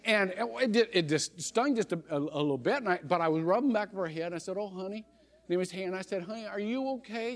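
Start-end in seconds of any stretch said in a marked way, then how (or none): 4.6-7.3 soft, hushed concern; gentle comfort. Retold or imitated. Preacher softly consoling the girl after the knock.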